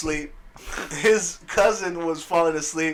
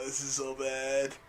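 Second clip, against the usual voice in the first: weary mutter; 3 semitones lower, 11 dB quieter, slower than usual. Retold or imitated. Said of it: "I was just like".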